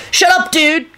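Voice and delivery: high, whining angry outburst; angry scream. A narrator's reading. Kenny silencing Rosie, screaming angrily. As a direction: cut her off in shrieky anger. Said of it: "Kenny screamed angrily".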